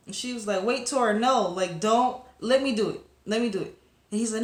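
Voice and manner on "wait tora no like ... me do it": quick, raised pleading; urgent protest. Retold or imitated. Poppy urging Tora to let her fasten the necklace, raised and urgent. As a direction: stop him before he breaks it.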